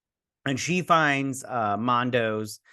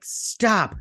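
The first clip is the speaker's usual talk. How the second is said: sharp yell; 9 semitones higher than usual. Retold or imitated. Angry character retold, he's pissed.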